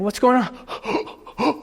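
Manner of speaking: very slow, stretched-out what's going on; drawn-out concerned question. Retold or imitated. Speaker asking the gripped moviegoer, slow and puzzled. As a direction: draw it out like you're checking on a strange friend.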